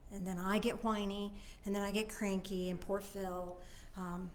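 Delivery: quiet, weary complaint; two-minute whine. Shown as a demonstration. Venting a hard week to the group, quiet and weary. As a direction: let the week's tiredness pour out. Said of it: "So that's my two-minute whine".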